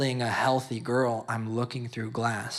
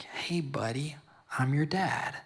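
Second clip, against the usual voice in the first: tearful whisper to newborn; 3 semitones higher than usual. Retold or imitated. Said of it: "I'm crying".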